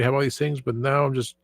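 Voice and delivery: ordinary delivery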